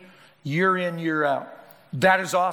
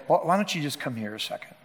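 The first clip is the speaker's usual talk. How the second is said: soft, quicker, a gentle coaxing invitation; very gently; 4 semitones lower, 4 dB quieter, faster than usual. Retold or imitated. Jesus speaking gently to the woman at the well. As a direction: coax her softly to come over. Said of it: "he said very gently".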